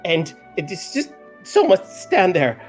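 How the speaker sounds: high, huffy little fairy; pixie voice. Acted. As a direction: insist in a tiny voice. Pixie Farum insisting.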